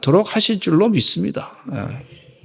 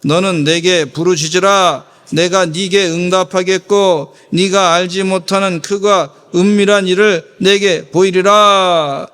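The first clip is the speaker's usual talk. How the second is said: slow, deliberate scripture reading; solemn slow Bible recitation; slower than usual. Shown as a demonstration. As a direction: read each word out slowly to the congregation. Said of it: "삼 절 읽겠습니다".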